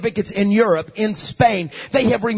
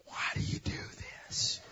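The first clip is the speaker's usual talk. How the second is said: sad hushed dad; 13 dB quieter than usual. Retold or imitated. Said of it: "He always said".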